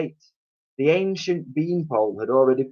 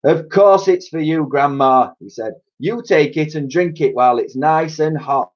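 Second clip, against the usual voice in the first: sweetly; 6 semitones higher, 4 dB louder than usual. A narrator's reading. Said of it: "and he smiled sweetly".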